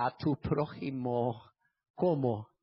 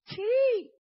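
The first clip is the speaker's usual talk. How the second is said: very high, louder cry of assent; emphatic yes; 5 dB louder than usual. Real, not acted. Preacher confirming betrayal brings pain, high emphatic cry. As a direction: cry out the yes, pitched right up. Preacher drives home his answer.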